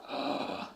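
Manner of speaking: hushed, voiceless gasp; mock gasp of shock. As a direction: imitate a crowd catching its breath. Crowd's shocked reaction acted out.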